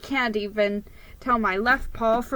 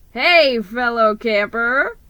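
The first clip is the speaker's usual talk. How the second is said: loud hail, then slow; yelled greeting; 7 dB louder, slower than usual. Acted. Rat on a bungee yells to his friend, loud. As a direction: holler it from outside the window. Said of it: "the rodent yelled".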